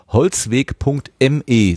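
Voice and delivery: slow, deliberate dictation; careful web address. Real, not acted. Host telling listeners where Tim is reachable, slow and careful. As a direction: give each part of the address its time. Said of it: "Nicht, dass wir die U R Ls hier wieder verschludern".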